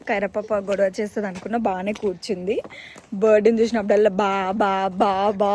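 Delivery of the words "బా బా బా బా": loud mock wailing, pitch left as usual; imitated bawling. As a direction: mimic a child bawling loudly. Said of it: "అని మొత్తుకుంటుండే".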